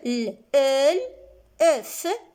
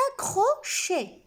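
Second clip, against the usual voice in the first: very slow "accrochés", a-ccro-chés, pitched up; syllable by syllable; 6 semitones higher, much slower than usual. Shown as a demonstration. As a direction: spell out "accrochés" in spaced syllables. Teacher models a new term.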